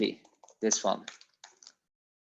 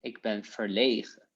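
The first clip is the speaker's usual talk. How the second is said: softer, bashful take of "Ik ben verlegen"; shy; 3 semitones lower, 5 dB quieter than usual. Shown as a demonstration. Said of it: "I am shy".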